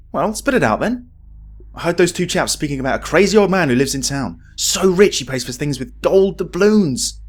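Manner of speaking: a hint of a greedy thief; lightly voiced scheming thug; eager crook. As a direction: lean in and share the juicy tip. Gang NPCs voiced.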